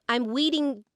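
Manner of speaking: put-on READING said as "weeding", like a little kid. Little kid talking to teacher, R becomes W. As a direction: swap the R in reading for a W. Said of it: "put the W in".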